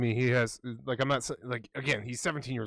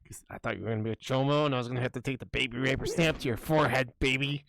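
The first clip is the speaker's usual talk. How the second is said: imitating a crazed guy. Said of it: "he'd be like".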